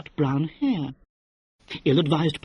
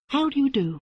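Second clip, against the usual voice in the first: sugary sweet greeting, pitched up; sweetly; 11 semitones higher than usual. Acted. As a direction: greet him with false sweetness. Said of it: "said Monica sweetly".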